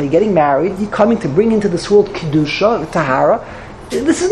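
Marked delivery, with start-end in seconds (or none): 0.0-2.9 proper blessing. Shown as a demonstration. Rabbi showing how to greet the bride, calm. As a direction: say it gently, as a blessing. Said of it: "You focus now, it's a simcha".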